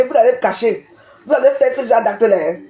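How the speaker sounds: warning said through a laugh; mocking warning with laughter. Real, not acted. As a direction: laugh as you repeat the warning.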